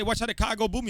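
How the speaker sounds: quick line in Virgin Islands dialect; sample a Virgin Islands accent. Shown as a demonstration. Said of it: "in my natural accent".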